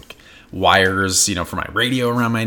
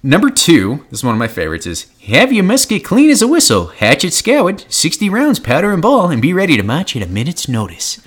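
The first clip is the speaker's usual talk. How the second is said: put-on high, loud old prospector voice; old-timey prospector voice; 8 semitones higher, 4 dB louder than usual. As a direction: bark the orders like a grizzled old miner. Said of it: "in that prospector voice".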